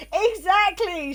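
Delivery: high, drawn-out Exactly; emphatic agreement. Real, not acted. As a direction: land it like you called it.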